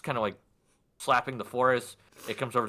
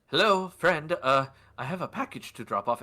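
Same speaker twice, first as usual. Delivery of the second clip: Dander; 3 semitones higher than usual. Acted. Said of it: "Dander knocks on the door and goes".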